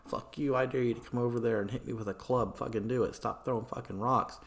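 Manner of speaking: rushed, acted jeering; mock screamed insults. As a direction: rattle off a heated dare at speed. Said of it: "they're all screaming insults back and forth".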